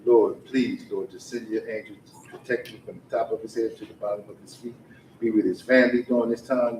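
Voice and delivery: earnest prayer in a steady murmured run; spoken prayer. Real, not acted. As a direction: pray aloud over someone, punctuating each plea. Leads a group prayer.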